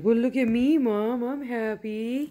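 lightly voiced happy pet; Leo. Pet telling Mom to look at him, lightly put-on voice. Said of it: "And Leo's like".

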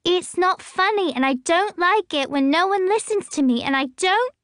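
high and loud, tearful; yelling through tears at laughing parents; shouting in tears. A narrator's reading. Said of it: "now she's shouting, tears streaking".

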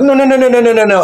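backing out in a panic; retold panic. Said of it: "I'm like".

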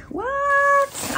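high startled what; sudden surprise. Real, not acted. Startled mid-haul by something unexpected. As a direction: yelp it like something caught you off guard.

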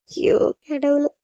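slow, drawn-out sigh of regret; anguished lament. Acted. Girl alone regretting her harsh words, anguished lament. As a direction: lament it slowly, full of regret.

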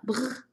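short trilled "brr" of cold; shivering brr. Shown as a demonstration. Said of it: "颤抖的时候用这个语气词哈".

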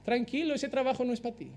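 calm the worried believer softly; Holy Spirit answering the believer's prayer, soft and reassuring. Retold or imitated. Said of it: "el Espíritu está diciendo".

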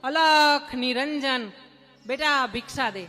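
sadhu's alms call. Retold or imitated. Wandering sadhu calling at each door for alms, slow chant-like call.

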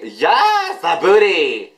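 high, stretched-out squeal of approval; thrilled fan's high cry; excited cheering. Real, not acted. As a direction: whoop it out high, then let it fall. Excited reaction to the video.

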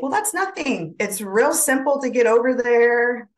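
a hint of a scheming alligator tempting the rabbit; coaxing alligator.

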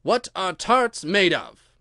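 slow, loud mock-grave question; ponderous royal questioning; deep voice. A narrator's reading. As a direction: draw it out with great gravity. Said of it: "he said in a deep voice".

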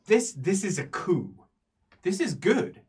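excited scholar. Acted. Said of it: "He says".

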